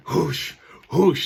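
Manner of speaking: mock breathing through a mask; imitated breath sounds through a mask; heavy breathing. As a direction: huff like a kid sweating in a mask. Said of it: "he's breathing heavy with the mask on".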